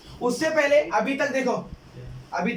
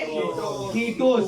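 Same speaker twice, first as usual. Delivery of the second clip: fondly drawn out; much slower than usual. Shown as a demonstration. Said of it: "उसको प्यार से क्या बोलेंगे".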